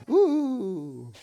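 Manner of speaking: high, wailing ghostly oohs; spooky ghost moan. Acted. Voices a ghost's spooky moaning.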